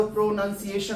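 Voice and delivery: प्रोनाउंसिएशन with a full "pro" at the start; wrong pronunciation. Shown as a demonstration. Teacher quoting what some people read out, प्रोनाउंसिएशन mispronounced. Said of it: "that is not your correct way".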